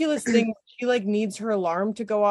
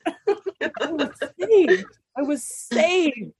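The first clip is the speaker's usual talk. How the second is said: laughing relief; 6 semitones higher, much slower than usual. Real, not acted. Rescued by the dog's belly.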